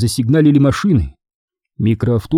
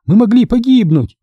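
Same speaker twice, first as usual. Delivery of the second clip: reproachful; 10 semitones higher, 4 dB louder than usual. A narrator's reading. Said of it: "упрекнула его жена".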